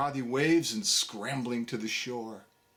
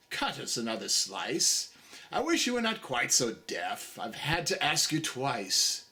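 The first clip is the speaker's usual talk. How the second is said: gruff carpenter; 3 semitones lower than usual. Acted.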